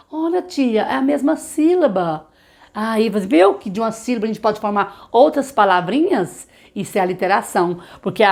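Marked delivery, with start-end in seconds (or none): 0.1-2.3 put-on child's voice. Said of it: "child realizes same syllable".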